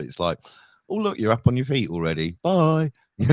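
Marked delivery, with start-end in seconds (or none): 0.9-2.9 mock-casual send-off, lifting on the goodbye; airy retold goodbye, higher at the end; casual, breezy dismissal. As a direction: imitate a breezy hospital brush-off. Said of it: "they've got so casual about it".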